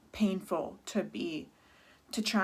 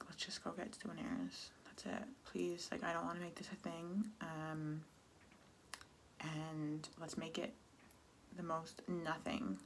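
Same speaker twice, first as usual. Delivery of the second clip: soft retold plea; 2 semitones lower, 14 dB quieter than usual. Retold plea to her mom.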